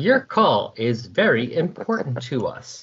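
sweet recorded hold message. Pretend. Mocking phone hold message.

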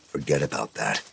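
low, hushed and soft; said quietly. A narrator's reading. Hogan to the boy, low hush so others can't hear. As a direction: keep it between the two of you. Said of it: "Hogan said quietly".

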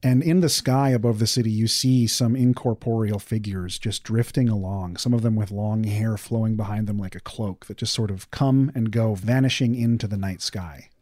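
hushed eerie narration; creepy ghost story. A narrator's reading. GM describes ghosts in sky.

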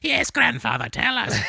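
put-on high, childlike eager answer; eager child. Children begging grandfather for the story, high and eager. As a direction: pipe up like a kid at storytime.

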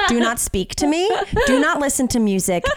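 laughing diva commands; demanding diva. Retold or imitated. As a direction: play a haughty diva. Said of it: "you sound like a diva".

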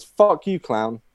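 punchline with a high-pitched first hit; acted defiant comeback. Grown-up kid to the clown, mock defiant punchline.

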